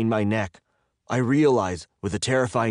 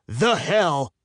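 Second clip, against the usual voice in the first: high-pitched angry emphasis; furious demand; 8 semitones higher, 3 dB louder than usual. A narrator's reading. Captive demanding their location piece by piece, furious. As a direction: drive each word home, pitched up.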